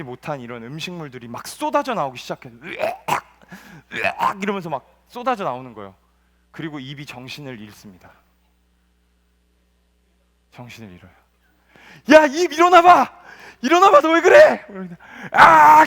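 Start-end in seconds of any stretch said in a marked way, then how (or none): 2.6-3.1 a high, hammed-up retching yell; high retching cry. Mouth vomiting. 3.9-4.4 retching groan. Acted. Mouth vomiting. 12.1-13.2 high, loud, slow shout; a loud, high, slow wake-up shout; urgent shout. Acted. Poop wakes fainted mouth. 13.6-14.7 urgent shout. Acted. Poop wakes fainted mouth. 15.3-15.8 high, loud startled cry; startled gasp. Acted. Mouth startles awake.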